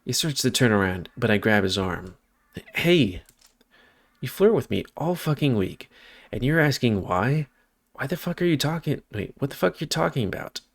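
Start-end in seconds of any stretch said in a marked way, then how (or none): 2.8-10.6 higher-pitched, indignant outburst; a touch of hurt outrage; angry confrontation. Acted. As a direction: confront him in disbelief, without shouting. Acted angry confrontation in story.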